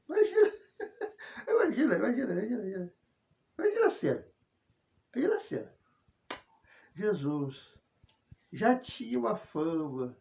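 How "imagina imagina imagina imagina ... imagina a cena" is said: excited urging. Acted. Preacher excitedly tells the congregation to picture the scene. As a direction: lift the voice high and plead with them to imagine.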